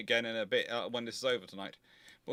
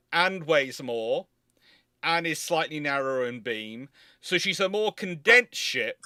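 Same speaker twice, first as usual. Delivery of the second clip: slow and louder, each point hammered home; emphatic retort; 5 semitones higher, 8 dB louder, slower than usual. Retold or imitated. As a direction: spell it out slowly to people who miss the point. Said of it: "I go".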